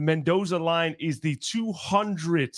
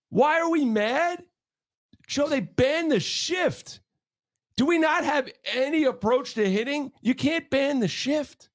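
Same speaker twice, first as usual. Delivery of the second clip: higher, pleading outrage; exasperated rant; 5 semitones higher than usual. Real, not acted. Host venting to Joe about hitting, higher exasperated. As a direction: rail at the team. Ranting at the Yankees.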